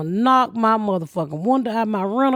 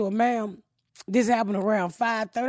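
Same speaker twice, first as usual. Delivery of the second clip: lightly voiced calm cop; 3 semitones lower, 6 dB quieter than usual. Imitating the calm police officer.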